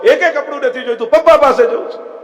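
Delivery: put-on high tearful little boy insisting on his father; child refusing. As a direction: refuse like a stubborn crying child. Lost child refusing clothes. (રડતા બાળકની જીદ)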